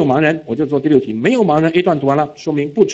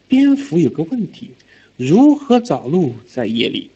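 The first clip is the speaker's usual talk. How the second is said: lightly voiced schoolkid, first part pitched up, then slow; a hint of a child reading haltingly; teacher shows how a pupil read the passage; imitating the pupil; 3 semitones higher, slower than usual. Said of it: "我给你展现一下".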